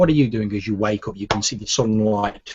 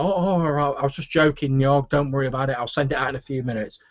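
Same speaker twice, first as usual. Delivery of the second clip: higher voice, easing down; placating half-elf cook; 4 semitones higher than usual. Acted. Half-elf cook calming the barkeep, placating. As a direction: back off in a higher cook's voice. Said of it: "you hear Finnan's half-elven voice".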